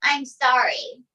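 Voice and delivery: slow, imitated grudging sorry; half-hearted apology. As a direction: mimic a reluctant, drawn-out apology. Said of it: "looks at me half-heartedly and says".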